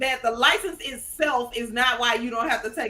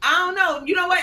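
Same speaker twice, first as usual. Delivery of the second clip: yappy, higher, a bit louder; poodle voice; 6 semitones higher, 3 dB louder than usual. Real, not acted. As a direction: yip it out like a small dog. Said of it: "You sound like a poodle just now".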